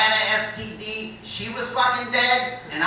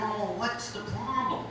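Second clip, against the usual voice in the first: gentle concerned tone; 9 dB quieter than usual. Retold or imitated. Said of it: "And my tone completely changed".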